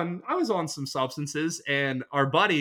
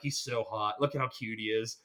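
soft, low mock-swooning over a friend; swooning coo; 6 semitones lower, 9 dB quieter than usual. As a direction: coo it like a lovestruck fan, hushed. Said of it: "we're like".

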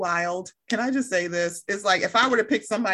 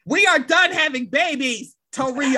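higher, louder hammed-up telling-off, slowing to spell it out; mock exasperated scolding; 5 semitones higher, 5 dB louder than usual. Boyfriend refusing more babies, mock exasperated scolding. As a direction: scold in mock outrage, half laughing.

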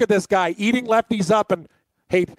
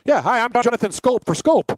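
mock ad read; 4 semitones higher than usual.

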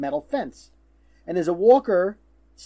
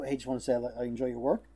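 hushed, lower and softer aside; mock whisper; 6 semitones lower, 8 dB quieter than usual. Imagined quiet word to a celebrity as he leaves, mock whisper. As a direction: lean in discreetly, voice dropped. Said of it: "didn't you whisper and go".

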